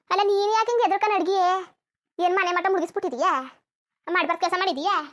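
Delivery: loud accusing questions; loud, indignant mother scolding her daughter; angry scolding. Acted. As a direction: demand to know what she did wrong.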